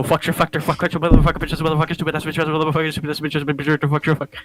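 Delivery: rapid string of angry swear words; swearing rant. Shown as a demonstration. Venting podcast host, letting off steam with mock swearing. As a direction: let the anger out in a stream of curses. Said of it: "I just go".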